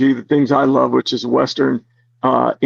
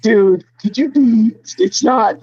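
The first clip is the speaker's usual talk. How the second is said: higher, mock-exasperated coworker voice; 6 semitones higher, slower than usual. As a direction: play the colleague scolding the guards. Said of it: "immediately they're like".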